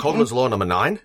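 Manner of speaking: put-on Aussie announcement; Australian accent. Co-host announces a drinking-game rule, mock Australian accent. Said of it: "keep saying that in the accent".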